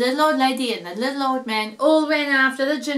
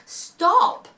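dog calling stop; 7 semitones higher than usual. A narrator's reading. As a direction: call out as the dog. Dog voiced in read-aloud story.

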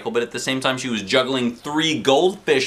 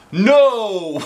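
loud, sharp firm no; 11 semitones higher, 7 dB louder than usual. A narrator's reading. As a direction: shut it down firmly. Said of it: "said Mister Klutz firmly".

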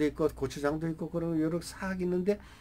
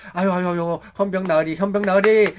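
put-on pleading old man; 7 dB louder than usual. Old man intervenes in beating.

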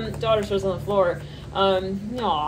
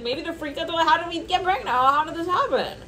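higher, bewildered panic; mock freaked out; 8 semitones higher than usual. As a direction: play a flustered couple asking how. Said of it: "somebody's like".

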